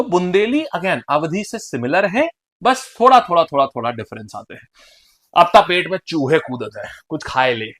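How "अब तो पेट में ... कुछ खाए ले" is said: measured Bundeli demonstration; Bundeli dialect. Shown as a demonstration. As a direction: say it as a Bundeli speaker would. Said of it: "This is all Bundeli भाषा". (बुंदेली लहजे में)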